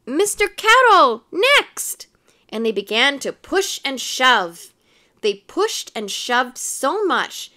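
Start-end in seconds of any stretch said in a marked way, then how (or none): 0.1-2.1 high, loud call for a turn; shrieking eager admirer; clamoring ladies. A narrator's reading. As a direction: push in and demand to be next. Clamoring ladies voiced in story.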